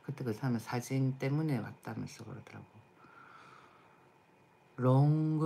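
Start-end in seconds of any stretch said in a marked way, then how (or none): 4.8-5.4 louder mock Japanese accent. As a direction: say it the Japanese way, with an added vowel. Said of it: "일본 사람들 발음이 안 좋다".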